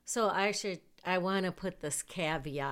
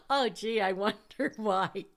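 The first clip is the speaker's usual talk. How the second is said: sarcastic; 4 semitones higher, 5 dB louder than usual. Real, not acted. Sarcastic aside about herself.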